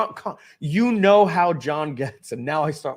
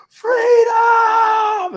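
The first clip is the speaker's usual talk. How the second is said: huge, much higher and louder Braveheart cry; yell at the top of lungs; 11 dB louder than usual. Retold or imitated. Shouting on the porch after quitting, full-lung cry. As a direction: roar it like Mel Gibson at the end of Braveheart. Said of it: "I yelled from the top of my lungs".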